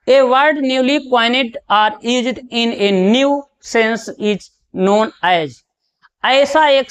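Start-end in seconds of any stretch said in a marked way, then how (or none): 0.1-5.5 slow, deliberate dictation pace; slow question read. Acted. Teacher reading the next quiz question to the class, very slow.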